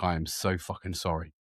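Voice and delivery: low, soft, sheepish sorry; quiet apology. Retold or imitated. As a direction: apologise under your breath. Apologising after hurting her.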